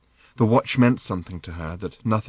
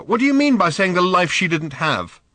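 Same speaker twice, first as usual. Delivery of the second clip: pressing plea; 8 semitones higher, 5 dB louder than usual. Acted. Arthur pressing his daughter.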